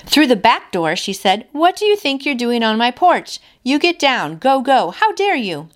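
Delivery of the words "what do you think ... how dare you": teacher voice. Retold or imitated. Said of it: "she used her teacher voice to tell the bear to leave".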